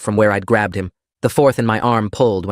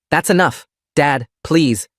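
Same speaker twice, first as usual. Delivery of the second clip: pleading; 5 semitones higher, slower than usual. Acted. Child pleading with father.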